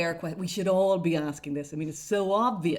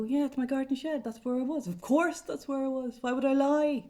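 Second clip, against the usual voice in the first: pitched higher, mock-innocent protest; mock defensive Claire; 5 semitones higher than usual. Claire Byrne imagined answering him, higher and mock-innocent. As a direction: play her protesting a bit too much from her shed.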